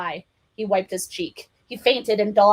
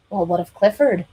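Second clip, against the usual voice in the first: ordinary delivery, nothing marked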